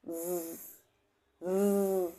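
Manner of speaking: জ- with a buzzing start; voiced j demo. Shown as a demonstration. Teacher sounding out জ. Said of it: "একটা কম্পন দেখতে পাচ্ছ".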